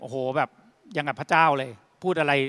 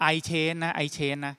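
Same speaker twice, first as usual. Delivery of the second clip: imitating halting, drawn-out English; very slow speech; much slower than usual. Shop owner answering the CEO in limited English, very slowly. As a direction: spell it out very slowly, word by word. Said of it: "เจ๊คนนี้พูดช้ามากเลย".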